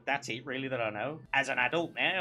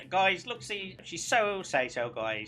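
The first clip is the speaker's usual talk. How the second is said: hyped-up sales pitch; 6 semitones higher, 4 dB louder, slower than usual. Pretend. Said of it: "Try and sell it".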